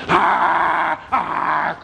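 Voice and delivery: short imitated animal roars; bear roar. Storyteller plays the bear gaining on him, imitated roars. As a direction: roar twice like an attacking bear. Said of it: "He was roaring and clawing".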